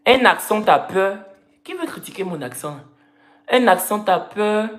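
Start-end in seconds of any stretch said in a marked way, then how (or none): 0.0-1.2 imitating Parisian slang talk; lightly mocked Parisian speech. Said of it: "C'est comme ça, il parle à Paris maintenant". 3.5-4.7 imitating Parisian slang talk; lightly mocked Parisian speech. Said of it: "C'est comme ça, il parle à Paris maintenant".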